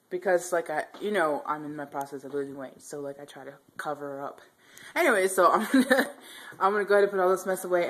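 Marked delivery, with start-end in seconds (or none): 4.9-7.9 laughing. Real, not acted. Laughing while wrapping up.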